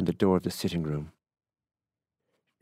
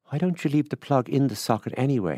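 critical; 7 semitones higher, 3 dB louder than usual. A narrator's reading. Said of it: "he asked critically".

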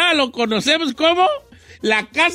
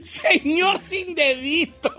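slow amused laughing; 3 semitones higher, much slower than usual. Real, not acted. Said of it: "¿Por qué me da tanta risa?".

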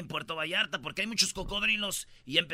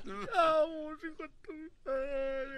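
lightly mock angry; 8 semitones higher, 3 dB quieter, much slower than usual. Acted retort continues.

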